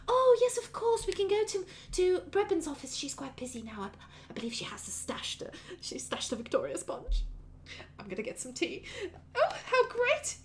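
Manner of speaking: high gushing start, dropping to confiding, then lilting; bubbly, happy mother. Acted. Mother delighted by son's friends, bubbly and happy. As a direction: chatter happily in a high mother's voice. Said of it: "all bubbly and all happy".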